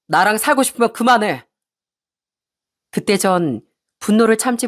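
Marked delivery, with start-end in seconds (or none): 0.1-1.5 firm demand with a falling end; stern ultimatum. Acted. Husband scolding his wife over his mother, stern ultimatum. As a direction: lay down a condition, mildly cross. 남편이 아내에게 던지는 최후통첩.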